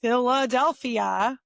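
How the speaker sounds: Philadelphia slowly, every syllable given; full-length Philadelphia. Shown as a demonstration. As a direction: spell out Philadelphia as "Fill-uh-DEL-fee-uh". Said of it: "So we shorten everything".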